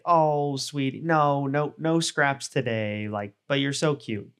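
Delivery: mildly imitating a doting owner at the table; dog mom voice. Owner gently refusing a begging dog table scraps, lightly sweet. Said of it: "you used your high-pitched dog mom or dog dad voice".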